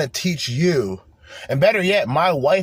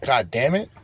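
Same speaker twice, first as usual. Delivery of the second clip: ordinary talk, nothing marked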